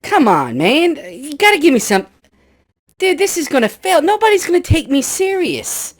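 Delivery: a tiny munchkin blowing his top; outraged munchkin. Acted. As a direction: munchkin furious about his voice.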